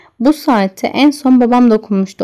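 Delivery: ordinary delivery, nothing marked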